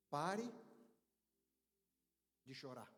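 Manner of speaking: first word held up, then a low, soft drop; solemn command. Acted. Jesus speaks to the grieving mother, solemn and low. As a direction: pause mid-phrase, finish hushed and low. Jesus' words, given for repeating.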